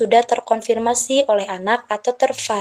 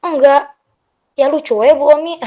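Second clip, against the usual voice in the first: lightly imitated child, higher and louder; quick, raised-pitch kid's reply; child answering; 5 semitones higher, 5 dB louder, faster than usual. Child answering the teacher's question about slang, lightly imitated child. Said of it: "Waktu Bu Omi nanya".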